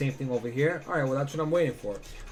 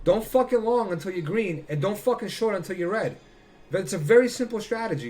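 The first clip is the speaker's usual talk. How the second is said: heated rant; 5 semitones higher, 4 dB louder than usual. Real, not acted. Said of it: "I went on a rant".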